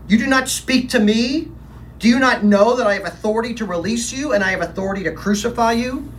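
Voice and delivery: high, loud, fast angry questioning. Acted. Governor angrily questioning the silent prisoner, high and fast. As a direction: demand an answer, fast and angry. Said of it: "I was angry with him now".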